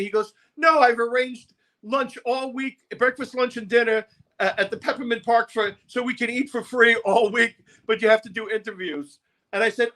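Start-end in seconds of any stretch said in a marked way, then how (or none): 0.6-9.2 campy promoter. Retold or imitated. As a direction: lay out the freebie plan like a flamboyant hustler. Promo man again.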